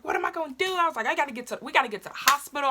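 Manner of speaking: high, hurried mock fretting; retold worried panic. Worried about getting to the hospital, high retold fretting. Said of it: "I was worried about my hospital bag".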